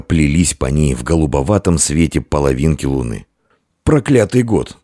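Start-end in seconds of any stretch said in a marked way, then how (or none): 3.8-4.8 irritated grumble, pitched up; exasperated innkeeper's grumbling. A narrator's reading. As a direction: grumble a curse to yourself. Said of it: "мысленно проворчал хозяин".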